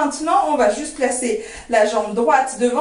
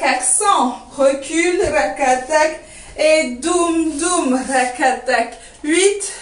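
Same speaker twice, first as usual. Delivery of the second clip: vocalised dance rhythm; much slower than usual. Shown as a demonstration. Dance teacher sounding out doum and rakatak for students, rhythmic cueing. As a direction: count in, then drum-like syllables on the beat.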